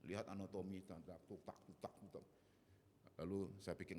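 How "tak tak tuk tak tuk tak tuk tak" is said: soft, low tick-tock tapping sounds; imitated tapping noises. Confused student looking at anatomy points, quiet tapping imitation. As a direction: tap out little noises under the voice.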